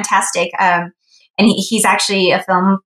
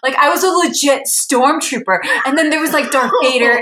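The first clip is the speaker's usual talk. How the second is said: much higher, tumbling fan thrill; gushing excitement; 9 semitones higher than usual. Retold or imitated. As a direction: retell it like a kid after the ride. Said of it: "He's like".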